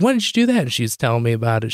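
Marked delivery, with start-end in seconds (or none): 0.0-0.6 high, incredulous question; retold astonishment. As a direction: ask like you can't believe it. Retelling surprise at mom's iPhone.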